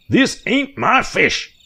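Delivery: high, loud, slow outraged yell with MY punched; shouting at the boys speeding off; angry old hick shout. A narrator's reading. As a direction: yell it like he's been robbed. Filthy man yells at fleeing boys.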